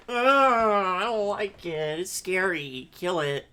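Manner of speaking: high, slow disgusted shriek; disgusted freak-out. Retold or imitated. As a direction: recoil from a creepy spider. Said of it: "every part of your instinct go".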